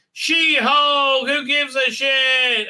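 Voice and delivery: loud, high scornful scoff. Real, not acted. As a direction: sneer it out, slow. Scoffs at the show.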